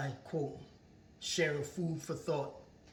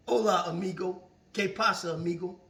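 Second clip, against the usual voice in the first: cheerful Spanish greeting, lightly voiced; a hint of a friendly overseas beggar; 3 semitones higher, 4 dB louder than usual. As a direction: greet like a smiling street beggar. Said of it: "But they smiling".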